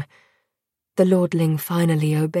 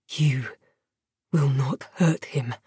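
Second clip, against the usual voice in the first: soft whisper; 3 semitones lower, 4 dB quieter than usual. Acted. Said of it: "the lordling whispered".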